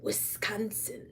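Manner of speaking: breathy whispered name. Real, not acted. Streamer whispers her home state, whispering.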